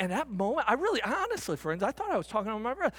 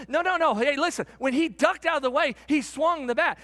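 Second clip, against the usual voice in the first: raised, louder voice, insistent; coaches yelling; 5 semitones higher, 4 dB louder than usual. Retold or imitated. Coaches disputing the umpire's call, in a raised imitating voice. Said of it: "the coaches started yelling".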